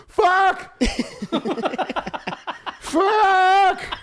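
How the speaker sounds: squeaky high yelps of a terrified dog; panicked dog voice. Retold or imitated. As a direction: yelp it like a scared dog in the car. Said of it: "She was like".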